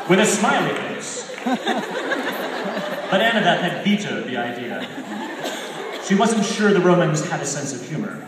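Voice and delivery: can't stop laughing as you read; laughing while reading. Real, not acted. Reads through laughter after outburst.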